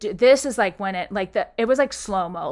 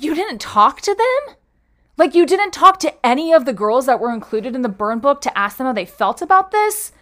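desperate pleading; 6 semitones higher than usual. Retold or imitated. To HR about the burn book, a high desperate plea. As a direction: beg them to understand, voice up high.

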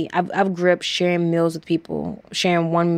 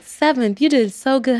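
higher, bright encouragement; cheering bystander; 7 semitones higher, 3 dB louder than usual. Retold or imitated. Bystanders praising the runner after the finish, higher. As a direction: cheer her on after the race.

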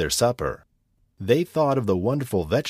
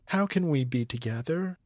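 crying out; 5 semitones higher, 5 dB quieter than usual. Acted. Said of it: "Rapunzel cried".

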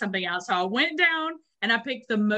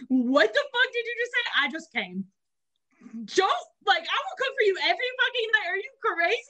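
indignant outburst; 11 semitones higher than usual. Retold or imitated. A woman rounding on her ex about doing dishes, high indignant outburst. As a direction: act scandalized at his rule. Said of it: "And I was like".

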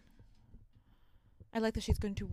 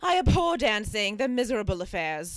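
Dickensian prim voice; 2 semitones higher, 6 dB louder than usual. Retold or imitated. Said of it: "slightly Dickensian way of speaking".

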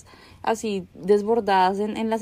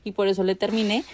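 sweet apology. Pretend. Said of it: "y decirle".

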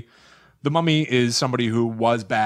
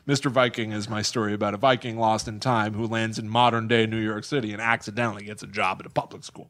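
out of breath; 3 semitones lower than usual. Real, not acted. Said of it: "Oh, I ran out of breath".

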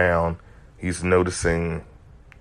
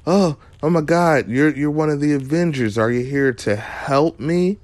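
mock panic; 9 semitones higher than usual. Agnes pretending to be scared to Vision, high mock panic. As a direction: play a frantic townsperson, much higher. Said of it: "And she goes".

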